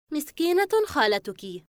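a touch of pity; sympathetic, sorry for someone; regretful. A narrator's reading. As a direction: say it with mild regret. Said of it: "تقول ماريا بأسف".

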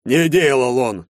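slow, high mocking echo; mocking mimic. A narrator's reading. Major mockingly repeats the recruit's denial. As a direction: parrot the recruit's excuse. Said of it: "передразнил майор".

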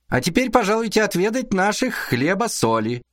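high sweet hostess voice; fawning. Acted. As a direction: flatter the guests with a smile. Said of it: "улыбаясь льстиво".

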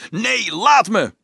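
high, loud, drawn-out protest; roaring. A narrator's reading. Dolf resisting the halberdier, roaring in protest. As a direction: roar back in defiance. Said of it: "brulde Dolf hem toe".

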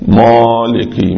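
مالكي drawn out slowly with a heavy ميم; wrong recitation. Shown as a demonstration. Teacher imitating the wrong, stretched ميم. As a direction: drag out مالكي the faulty way. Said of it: "مش".

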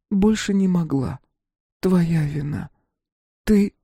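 a voice bending through cracks; wife's accusing voice from the rubble, lightly voiced; distorted wife's voice. A narrator's reading. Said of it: "Голос искажался в трещинах".

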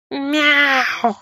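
high, drawn-out mock meow; indignant cat meow. A narrator's reading. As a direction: meow in protest like an offended cat. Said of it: "возмущённо зашипел котик". (возмущённое кошачье мяуканье)

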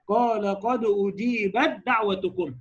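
أجيبت دعوتكم slow, تاء merged into دال; slow recitation. Shown as a demonstration. Teacher demonstrating example verse, slow. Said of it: "أنت تبص كده،".

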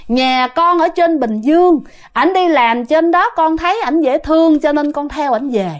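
a hint of high girlish voice; female spirit voice. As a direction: imitate a young ghost telling her story. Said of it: "chuyển qua giọng nữ".

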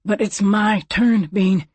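the other man objecting to the cougar. A narrator's reading. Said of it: "the other objected".

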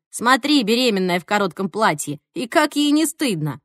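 mock scandalised remark; imitated indignant busybody; disapproving gossip. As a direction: tut at a stranger as a judgemental onlooker. Imagined disapproving gossip about dancers.

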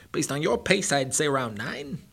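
high, loud, mocking hare; cocky hare voice. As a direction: taunt him like a bratty show-off. Bucky answers.

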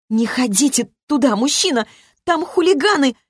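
put-on high-pitched girlish warning; girl's squeak. A narrator's reading. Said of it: "пискнула". (девичий писк)

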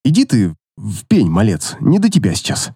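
low gruff cat voice; dismissive barfly grumble; slurred cynical barfly. A narrator's reading. Cat brushing off drunk boy.

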